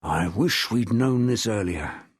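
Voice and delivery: slow, low growl from deep in the throat; low, drawn-out grumble; low rumbling growl. A narrator's reading. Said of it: "A low rumbling, like a growl".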